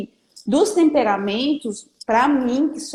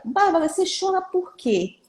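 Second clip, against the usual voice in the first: mother asking; 7 semitones higher than usual. Retold or imitated. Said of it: "pra perguntar pra ela".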